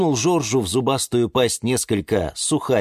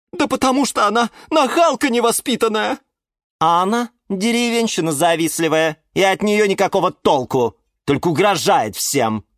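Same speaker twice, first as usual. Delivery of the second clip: high-pitched indignant tattling; high, huffy complaint; squabbling plants; 11 semitones higher, 4 dB louder than usual. A narrator's reading. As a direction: hurl accusations like quarrelling children. Two plants trade insults.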